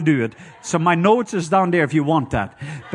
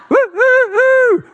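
1 eerie howling hoot; 8 dB louder, much slower than usual. Retold or imitated. Imitating night creature hoots.

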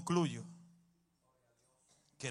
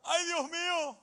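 high, loud, slow yelp of pain; showing the congregation how you yell after a bump, loud mock yelp; mock pain shout; 13 semitones higher, 4 dB louder, slower than usual. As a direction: cry out like you hit your nail. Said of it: "¿cómo usted grita?".

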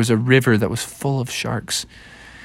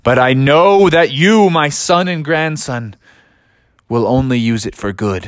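solemn trust. Acted. Grandfather solemnly entrusts the crystal.

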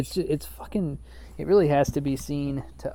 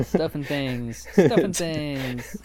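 drawn-out, very slow show-title read, second one louder; slow podcaster voice; 4 dB louder, much slower than usual. Pretend. Mocking podcasters, slowly intoning a fake show name. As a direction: savor each word like a radio host naming the show.

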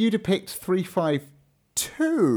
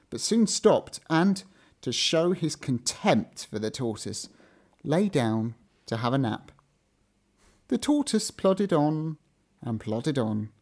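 story narration; 2 semitones lower than usual. A narrator's reading. Fable narration.

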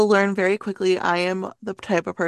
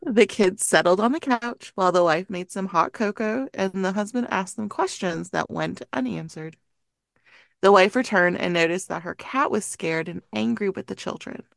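measured scary-story reading; story narration. A narrator's reading. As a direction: read the eerie tale aloud to friends. Reads a creepy story aloud.

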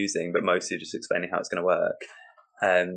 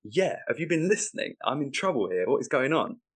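exasperated pleading; 5 semitones higher than usual. Acted. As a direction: press the booth for help in a panic. Host frantic at sound booth.

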